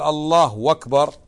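"الله أكبر" sounding like "اللهو أكبر" with a w; wrong waw. Shown as a demonstration. Teacher showing the mistaken conjunction. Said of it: "كأن الله شيء وأكبر معطوف عليه".

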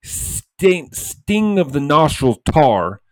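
loud, fast, worked-up rant; fired up. Real, not acted. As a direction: get heated and push it hard. Heated rant about punishing refs.

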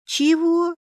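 high, astonished question; surprised drawl. A narrator's reading. Heroine reacts to the familiar's sly hint, surprised drawl. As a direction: stretch it out in disbelief. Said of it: "удивлённо протянула в ответ".

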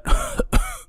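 soft, breath-only coughing; old woman's quiet cough; acted coughing fit. A narrator's reading. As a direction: break off into coughing. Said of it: "Càng nói bà càng ho dữ dội".

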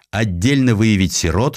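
ordinary delivery

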